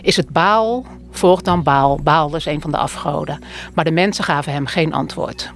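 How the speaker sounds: measured, solemn scripture reading; Bible reading. Acted. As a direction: read the Bible passage aloud to the congregation. Voorlezen uit de Bijbel. (plechtig voorlezen uit de Bijbel)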